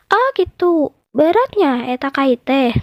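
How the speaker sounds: mouse deer asking. Acted. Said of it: "tanya pecang".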